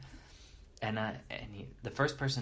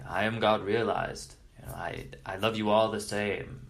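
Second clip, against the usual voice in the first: mock-lofty guru, louder; detached, far removed; 6 dB louder than usual. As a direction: proclaim it from a great distance, impersonally. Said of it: "only in a detached way, in a way that is far removed".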